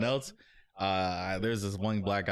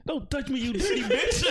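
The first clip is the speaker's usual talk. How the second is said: high-pitched outraged recoil, getting louder; mock disgust; 4 dB louder than usual. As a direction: retell it as a disgusted outburst, breaking into laughter. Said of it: "he looked truly disgusted too".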